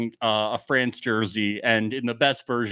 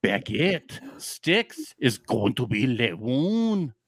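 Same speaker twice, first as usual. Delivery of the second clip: mock French accent; slower than usual. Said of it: "I'm losing my accent".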